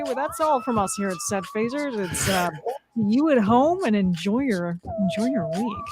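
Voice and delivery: a lightly voiced TV correspondent signing off. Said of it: "desperate to do my, my correspondent".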